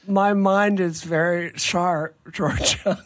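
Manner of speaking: slow, swollen-mouthed talk; careful words through swollen lips. Real, not acted. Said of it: "you sound a little bit adorable".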